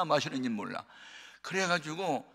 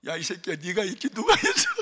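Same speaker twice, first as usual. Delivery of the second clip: angry mother; 6 semitones higher, 6 dB louder than usual. Retold or imitated. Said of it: "어머니가 눈치가 빠르잖아요".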